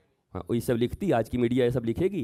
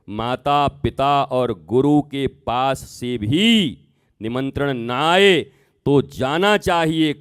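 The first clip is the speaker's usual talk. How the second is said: slow, spaced-out repeat with pauses between phrases; deliberate restatement; 3 semitones higher, 6 dB louder, slower than usual. Acted. Shiva restating the rule to Sati, slow and deliberate. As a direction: lay each word down slowly, like a final teaching. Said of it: "तब भगवान शंकर ने कहा".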